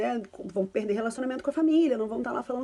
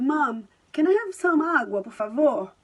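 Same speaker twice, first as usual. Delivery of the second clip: put-on mixed-language child request; 3 semitones higher, 5 dB louder, slower than usual.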